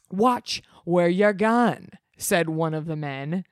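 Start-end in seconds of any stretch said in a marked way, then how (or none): 0.1-1.9 slow, lightly gruff warning; a hint of a tough guy; gruff man, lightly voiced. One of the men scolding Henry, slow and lightly gruff.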